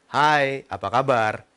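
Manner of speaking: greeting pitched low and dropping. Shown as a demonstration. Coach demonstrating a too-low speaking pitch, low voice. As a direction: say hello from the bottom of your range. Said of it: "Ini terlalu rendah".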